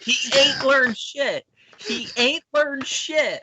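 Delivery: high, squeaky Yoda put-on; a silly high Yoda scoff; mock Yoda voice. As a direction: squeak it like a tiny old master. Mocking Luke, Yoda voice.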